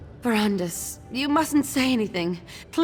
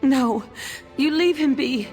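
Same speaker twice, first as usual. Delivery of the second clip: protective protest; 4 semitones higher, 5 dB louder than usual. Acted. Sick woman protecting her husband.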